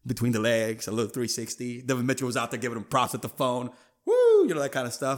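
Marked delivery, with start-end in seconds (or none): 4.1-4.5 a big high whoop, like cheering from the sideline; high excited whoop. Retold or imitated. The teammate cheering the dunk with a loud high whoop.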